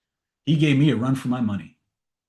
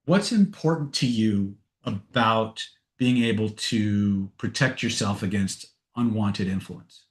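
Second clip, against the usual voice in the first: slow probing question; slower than usual. Shown as a demonstration. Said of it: "if I were going to ask the question".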